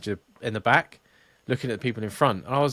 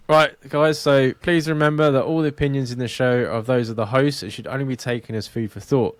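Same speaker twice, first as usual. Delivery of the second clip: disclaimer read. Acted. Reads podcast disclaimer.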